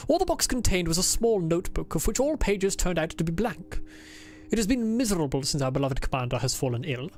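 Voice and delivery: a lightly put-on formal diary accent; Adler's put-on accent. Streamer reading Adler's diary aloud, lightly put-on accent. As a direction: read it as the stiff diarist, with only a hint of accent. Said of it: "Why do you think I'm doing this accent for him?".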